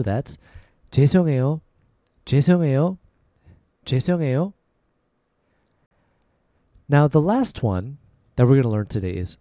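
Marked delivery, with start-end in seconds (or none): 0.9-4.5 natural everyday pace; a little faster. Shown as a demonstration. Teacher repeating at natural speed. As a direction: say 죄송해요 at normal speed. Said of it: "A little faster".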